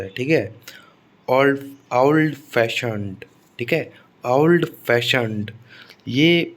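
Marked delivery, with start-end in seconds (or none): 1.3-3.2 ओल्ड फैशन्ड slowly, stress meant on FA of फैशन्ड; second-word stress. Shown as a demonstration. Teacher modelling a compound adjective, slow second-word stress. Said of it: "तो stress second syllable पर आता है". 4.3-5.5 ओल्ड फैशन्ड slowly, stress meant on FA of फैशन्ड; second-word stress. Shown as a demonstration. Teacher repeating the adjective example, slow second-word stress. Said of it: "तो stress second syllable पर आता है".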